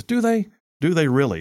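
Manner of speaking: jab back at the claim with scorn; sarcastic retort. Acted.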